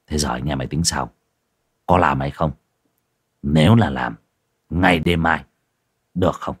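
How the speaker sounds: low, quick conspiratorial voice; hint of a scheming boss; scheming ringleader. Thịnh asks the group.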